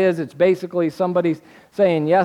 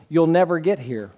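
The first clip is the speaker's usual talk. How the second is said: ordinary talk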